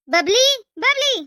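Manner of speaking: stretched, summoning call. Acted. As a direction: slowly call her name to summon her. Mother-in-law calling for daughter-in-law.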